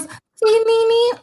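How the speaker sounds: high, pointed call to her granddaughter; grandma calling out. Retold or imitated. Grandma nudging her granddaughter during Dateline, high call. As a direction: pipe up sharply like grandma catching her attention. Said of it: "so she goes".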